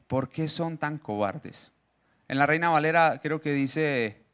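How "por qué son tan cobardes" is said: tender. Acted. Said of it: "Jesús era muy tierno".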